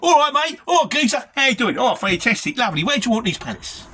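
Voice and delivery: loud, high Mockney trucker chat; Mockney banter. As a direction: greet the lads in exaggerated, loud Mockney. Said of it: "when I'm out in the track, it's like".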